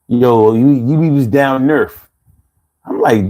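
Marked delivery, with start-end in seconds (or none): 0.1-2.1 street Philly talk, north said as Nerf; light Philly block voice imitation; imitating Philly accent. Host imitating how Philly folks say north, Philly accent. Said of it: "They'll say Nerf".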